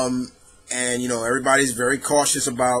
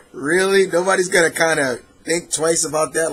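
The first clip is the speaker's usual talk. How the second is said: raised, mock-incredulous questioning; 3 semitones higher, 4 dB louder than usual. Reader questioning a silly spy code name, incredulous. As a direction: push it up in amused disbelief.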